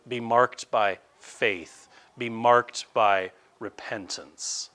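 slow, weighty sermon commands; slow preaching exhortation. Acted. Preacher exhorting the congregation, slow and weighty. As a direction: lay down each charge slowly.

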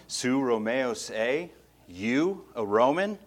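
scornful question, YOU stressed; a hint of a sneering official; condescending. Shown as a demonstration. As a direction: sneer down at a chained prisoner. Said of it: "it sounds much more condescending".

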